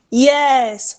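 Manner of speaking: drawn-out, excited "Yes". Shown as a demonstration. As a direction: say "Yes" long, lifted with excitement. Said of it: "your tone is rising because you".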